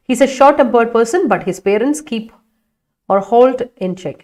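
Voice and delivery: slow student sentence read aloud. Shown as a demonstration. Teacher reading a student's sentence slowly. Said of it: "അതിലൊന്ന് മാറ്റി പിടിക്കണേ".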